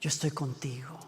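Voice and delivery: tender unvoiced reassurance; soothing whisper. Shown as a demonstration. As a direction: hush a frightened heart gently. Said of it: "el shh de Dios".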